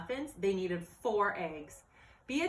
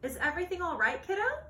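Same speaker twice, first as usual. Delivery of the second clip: caring father; 10 semitones higher, 3 dB louder, faster than usual. Acted. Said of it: "asked her father".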